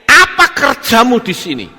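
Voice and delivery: a hint of a heavenly messenger questioning; voice of an angel. Angel asks Elijah what he is doing, lightly voiced calling out.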